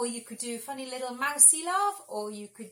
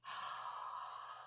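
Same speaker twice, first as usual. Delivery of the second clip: deep breath in; 13 dB quieter than usual. Shown as a demonstration. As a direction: breathe in deeply. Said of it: "Take a deep breath".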